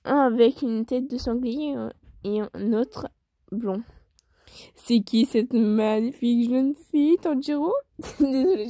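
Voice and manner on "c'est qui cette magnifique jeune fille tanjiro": pervert voice. Acted. Boy eyeing the new girl, a hint of a leering pervert. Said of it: "faire la voix du pervers".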